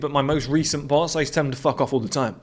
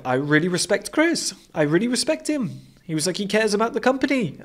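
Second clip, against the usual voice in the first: higher, lightly voiced Swiss boss; a hint of the little Swiss boss gushing; imitating the boss, pitched up; 7 semitones higher than usual. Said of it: "he's a little Swiss guy".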